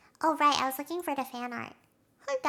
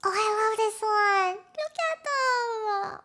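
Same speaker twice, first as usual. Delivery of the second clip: touched; 7 semitones higher, slower than usual. Real, not acted. Moved by sad fan art.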